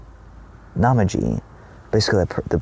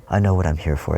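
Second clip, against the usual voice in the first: soothing animal voice; 4 dB quieter than usual. Retold or imitated. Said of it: "It's almost like".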